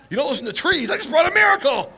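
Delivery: can't believe what he just heard; incredulous echo. Retold or imitated. Rabbi Eliezer repeating the rabbis' refusal in laughing disbelief.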